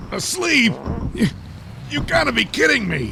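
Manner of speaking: high, loud outraged disbelief. Acted. Night Night finding Frogman asleep during the attack, shrill disbelief. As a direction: squeal it, unable to believe he's asleep.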